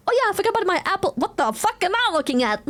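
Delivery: acting out finding the old apple; surprised. Retold reaction to a brown apple.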